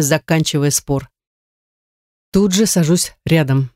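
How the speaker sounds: ordinary delivery, nothing marked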